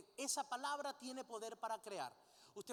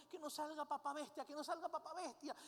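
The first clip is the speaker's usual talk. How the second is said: put-on pleading little girl; 4 semitones higher than usual. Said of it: "la niña cuando vio a la mamá dijo".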